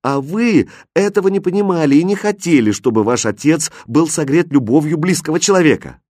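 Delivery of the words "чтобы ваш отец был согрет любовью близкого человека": plain reading voice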